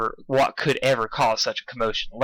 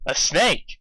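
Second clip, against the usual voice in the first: cynical; 4 semitones higher than usual. Acted. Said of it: "Applejack replied cynically".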